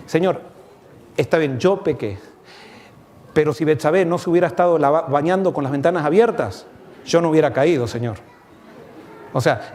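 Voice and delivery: a sinner's self-justifying prayer, half-hearted; excuse-making prayer. Acted. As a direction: whine to God with excuses, not repentance. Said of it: "¿Cómo oraría el, el remordimiento?".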